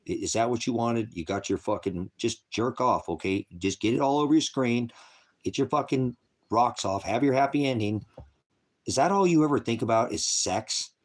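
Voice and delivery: angry berating. Real, not acted. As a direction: tear into him with contempt. Berating a viewer named Matthew.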